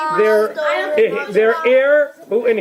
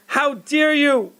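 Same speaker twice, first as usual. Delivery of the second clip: slow, mild how dare you; lighter scolding; 4 semitones higher, slower than usual. Acted. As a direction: scold slowly. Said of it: "as she was screaming".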